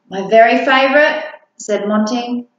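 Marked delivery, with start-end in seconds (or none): 0.1-1.2 put-on higher, louder hopeful kid voice; light up at the pudding offer; delighted monster child.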